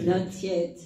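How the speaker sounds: soft and tender; very gently. Retold or imitated. Master gently answering the screaming cup, tender. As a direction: hush her kindly. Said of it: "he said very gently".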